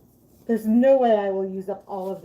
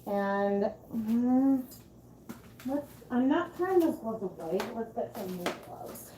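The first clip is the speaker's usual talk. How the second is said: talking through a respirator mask; muffled speech behind a mask. Real, not acted. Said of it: "now I'm in my respirator".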